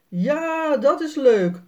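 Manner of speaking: a happy shout, lightly done; mild excited call; calling out together. A narrator's reading. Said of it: "roepen Jasper en Sanne tegelijkertijd".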